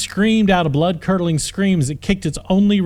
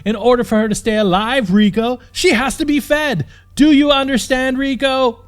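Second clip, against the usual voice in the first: angry; 8 semitones higher, 3 dB louder than usual. Acted. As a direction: lecture him through anger. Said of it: "heaved in anger".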